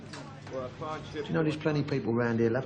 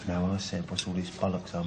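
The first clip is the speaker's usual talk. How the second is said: menacing; 7 semitones lower, 3 dB quieter than usual. Acted. Gangster threatens ignored man.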